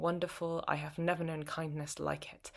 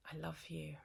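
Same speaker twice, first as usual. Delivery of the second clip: whisper; 11 dB quieter than usual. Acted. Closing line to her partner.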